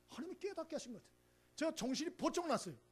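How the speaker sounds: normal talking voice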